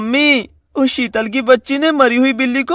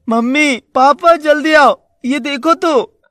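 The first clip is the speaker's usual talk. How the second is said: slow, higher call to mummy and papa; 4 semitones higher, slower than usual. Acted. Son calling his parents to come outside. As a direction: call them over urgently.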